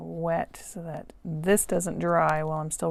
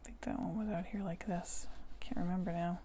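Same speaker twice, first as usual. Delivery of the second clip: whispering; 6 dB quieter than usual. Real, not acted. Muttered aside recalling a stroke.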